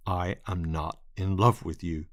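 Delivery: firm and clipped, each word set apart. Acted. Lionel repeating his refusal, firm and staccato. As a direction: lay it down flat and final. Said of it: "his voice lower, firmer, and staccato".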